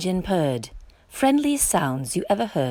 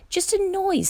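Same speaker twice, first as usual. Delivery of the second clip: pig voice; 11 semitones higher than usual. Acted. Pig shrugs off thunder.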